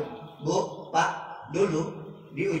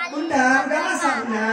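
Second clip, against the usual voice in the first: higher, louder, demanding husband; bossy demand; 8 semitones higher, 4 dB louder than usual. Shown as a demonstration. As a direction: order her about like a boss. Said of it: "Nggak begitu".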